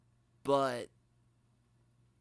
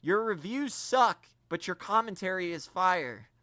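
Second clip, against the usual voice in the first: quoted viewer comment; 3 semitones higher, 5 dB louder than usual. Retold or imitated. Reading a viewer's comment aloud, louder and punchy. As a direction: hit suck, then land on fire. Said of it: "I had someone say".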